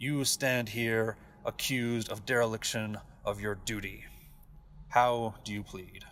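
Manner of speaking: towering, echoey, reverberating god voice. A giant god seated on a stone throne addresses Bruce, very deep, echoey god voice. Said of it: "It is fairly obvious that this is him. Yep. Seated before you, the god. / and a huge stone throne. Seated upon is a giant metal-clad soldier. Okay. Comparatively, he stands 4 times your height. / A".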